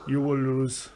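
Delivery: low, cold Russian threat; flat boxer's menace; Ivan Drago impression. Host quoting Drago to his co-host, low Russian menace. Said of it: "Ivan Drago".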